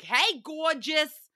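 slow, high, leering "Hey, gorgeous"; catcaller impression. Guys in a convertible catcalling her, slow sleazy leer. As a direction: drawl it out like a sleazy guy in a convertible. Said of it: "they're like".

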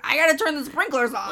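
lightly voiced creepy old man; a hint of an ominous groundskeeper. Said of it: "Like the old creepy groundskeeper".

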